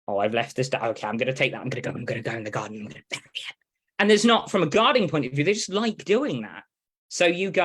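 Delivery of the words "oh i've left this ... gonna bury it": sneaky dog voice. Retold or imitated. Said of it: "they like to be sneaky".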